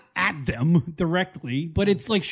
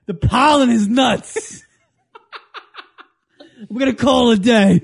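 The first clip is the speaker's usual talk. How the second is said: whiny recruit; 5 semitones higher, 5 dB louder than usual. Pretend. Mock soldier begging sergeant.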